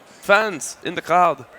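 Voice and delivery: put-on hammy French accent in English; mock French greeting to the crowd. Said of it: "you doing a French accent while speaking English".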